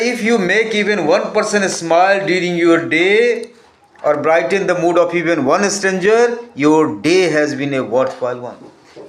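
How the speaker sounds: reading an English quote, very slow and deliberate. Acted. Teacher reading a quote to students, slow and measured. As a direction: read each word out slowly to the class.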